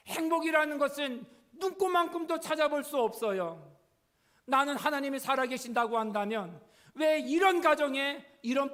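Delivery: acted anguished outburst, high and loud; imitating a distraught teenager, loud and high; tearful complaint. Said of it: "울면서 얘기를 해요".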